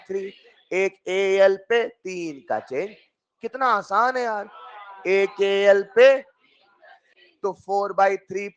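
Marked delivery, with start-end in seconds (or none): 5.1-6.1 a sudden loud shout at the class; emphatic shout. Real, not acted. Teacher shouting the key step to sleepy students, loudly. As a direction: bark the point out to wake them up.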